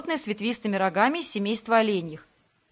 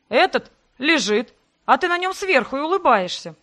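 heated accusation; 4 semitones higher, 5 dB louder than usual. Acted. Sebastian accuses her, still shouting. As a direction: spit out what he saw. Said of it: "Тоже повысил голос Себастьян".

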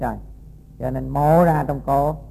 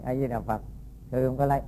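soft humble denial; 4 semitones lower, 7 dB quieter than usual. Acted. The monk meekly denies it a third time, softly. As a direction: lower and much softer, meek and calm.

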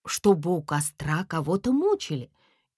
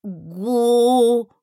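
strained syllable; 4 semitones higher, 7 dB louder than usual. A narrator's reading. Cat straining to speak.

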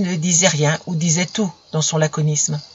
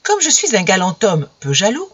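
feigned naturalness. Acted. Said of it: "avec un naturel très bien imité".

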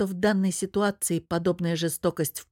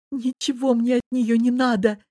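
higher, tearful cry of refusal; sobbing; 6 semitones higher, 4 dB louder than usual. Acted. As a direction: push it out through sobs. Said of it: "всхлипывая".

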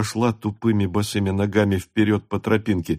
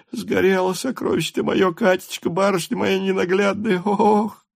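high, keening wail ending in a cry; wailing lament; 10 semitones higher than usual. A narrator's reading. Servant girl wails over the burned child. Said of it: "завыла Аниска".

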